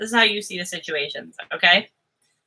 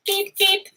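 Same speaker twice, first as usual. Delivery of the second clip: high beeping noise; 11 semitones higher than usual. Pretend. Beeping noise after muffled talk.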